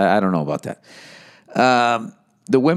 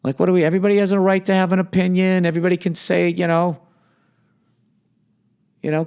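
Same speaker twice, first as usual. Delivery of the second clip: mock exasperated plea, higher and fast; hammed-up reasonable voice, raised pitch, rushed; voice of reason; 7 semitones higher than usual. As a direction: play the rational guy begging everyone to calm down. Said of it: "the rational people to be like".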